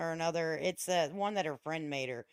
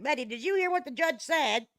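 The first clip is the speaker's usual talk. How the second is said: mock shaking her; 6 semitones higher, 4 dB louder than usual. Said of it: "I almost wanna shake her by her shoulder and be like".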